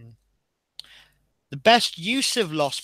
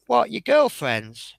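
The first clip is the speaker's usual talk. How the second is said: higher, slow, disbelieving; shocked question; 6 semitones higher, 4 dB louder, slower than usual. Retold or imitated. Driver questioning the man who left a child, incredulous. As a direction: stretch it out in disbelief.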